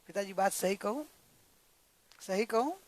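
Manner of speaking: gentle, careful request to speak; humble, cool. Acted. Daughter-in-law asks to tell father-in-law the truth, humbly. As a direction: ask permission respectfully, without heat. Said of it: "विनय से और एकदम ठंडा करके".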